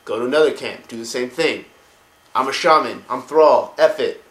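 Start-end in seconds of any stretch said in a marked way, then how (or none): 2.4-4.2 louder hammed-up war chant; mock-heroic orc rally, louder; rallying cry. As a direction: pump up the crowd.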